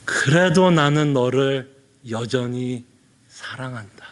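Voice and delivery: slow, low, lingering assurance. Retold or imitated. Pastor repeating God's words to a sinner, slow and tender. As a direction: draw each word out, tenderly. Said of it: "하나님이 뭐라고 말씀하는 것 같아요?".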